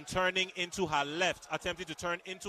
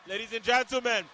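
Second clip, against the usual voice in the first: higher, louder hyped play-by-play; excited commentary; 7 semitones higher, 7 dB louder than usual. Real, not acted. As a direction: celebrate the knockout on air.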